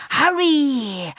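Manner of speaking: high, loud urgent call. A narrator's reading. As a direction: urge them on from the corner. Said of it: "urged the voice again".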